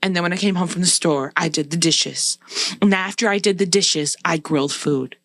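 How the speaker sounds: mildly mocking recital of chores done; imitating a scorekeeper's itemised complaint; listing off grievances. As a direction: tick off each deed as if keeping score. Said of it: "started listing off every single thing".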